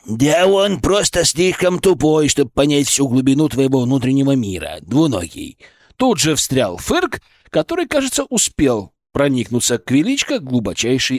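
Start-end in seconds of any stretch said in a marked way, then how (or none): 0.1-5.6 disdainful creature. Acted. Creature sneers at colleague.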